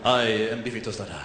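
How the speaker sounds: low, smoldering porn-star introduction; Latino porn star. Acted. Porn star announcing his stage name, low-voiced. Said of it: "sounds like a Latino porn star".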